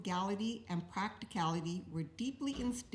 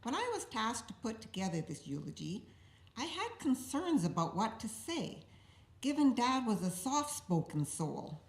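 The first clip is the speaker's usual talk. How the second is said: joking through laughter; 4 dB louder than usual. Real, not acted. Teasing deadpan setup, then laugh.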